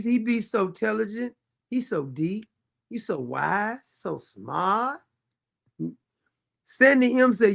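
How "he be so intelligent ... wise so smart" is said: softer, mock-admiring murmur; sarcastic praise. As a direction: fake awe, dripping with irony. Sarcastic agreement with Vernice.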